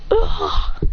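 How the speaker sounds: low rough cry on being kicked; acted impact groan; mock grunt of pain. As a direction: take the hit with an "ah". Character kicked back.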